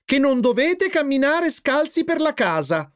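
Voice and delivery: high-pitched motherly telling-off; admonishing. A narrator's reading. Mother forbidding bare feet at home, admonishing. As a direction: lay down the rule in a high voice. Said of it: "ammonì la signora Binda".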